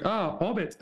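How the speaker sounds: put-on Argentinian accent. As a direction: mimic how Argentinians say "Hobbit". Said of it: "they say it in the Argentinian accent too".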